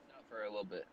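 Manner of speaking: glitchy breaking phone line; bad connection audio; wobbly warbling call audio. Real, not acted. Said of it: "You're glitching out".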